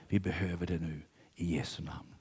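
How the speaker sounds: breathy whispered prayer, no voice. Real, not acted. Preacher drops to intimate whisper. (viskande bön)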